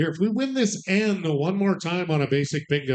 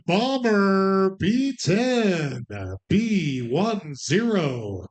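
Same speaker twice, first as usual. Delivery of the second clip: drawn-out number call; slow bingo call; slower than usual. Acted. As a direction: stretch each number slowly. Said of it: "regular slow bingo call".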